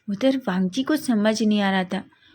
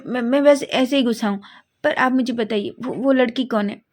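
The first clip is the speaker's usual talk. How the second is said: flustered demand; 2 semitones higher than usual. Acted. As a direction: demand who she is, defensively. Wing flustered, demanding answer.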